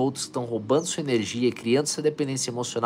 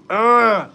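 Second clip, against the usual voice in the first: excited shout; 9 semitones higher, 12 dB louder than usual. Real, not acted. Cheering on a viewer.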